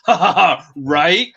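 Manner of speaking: imitating a sudden loud laugh and chatter; Spencer. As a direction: burst out loud, mimicking a streamer. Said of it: "you just hear Spencer super loud".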